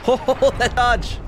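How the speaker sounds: high, slow, amazed exclaim; excited. Real, not acted. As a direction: marvel at the dodge, drawn out. Gamer amazed by dodge.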